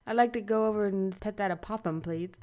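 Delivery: playful lisp on "opossum" and "please"; s turned to th in "opossum, please"; mock lisp. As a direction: lisp "opossum" as "opothum", jokingly. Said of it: "saying opossum with a lisp".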